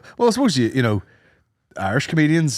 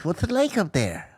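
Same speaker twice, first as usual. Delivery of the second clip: higher, softer southern Irish mimicry; southern Irish accent; 4 semitones higher, 6 dB quieter than usual. Mocking comedians from down south, soft high southern Irish accent. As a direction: imitate a creamy boy from down south. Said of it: "The old creamy boys down there being like".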